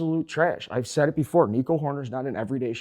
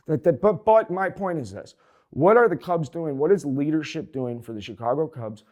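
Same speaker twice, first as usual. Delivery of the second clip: angry demand; 3 semitones higher, 5 dB louder than usual. Real, not acted. Demanding answers from leadership.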